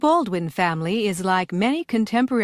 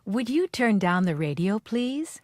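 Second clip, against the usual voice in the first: polite request. Shown as a demonstration. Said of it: "Write P for polite, I for impolite".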